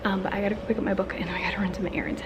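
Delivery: winded from walking around; out of breath. Real, not acted. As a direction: talk while catching your breath. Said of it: "Sorry, I'm out of breath".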